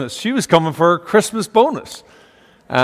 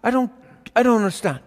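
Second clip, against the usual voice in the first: put-on bewildered child; 7 semitones higher, faster than usual. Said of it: "I said".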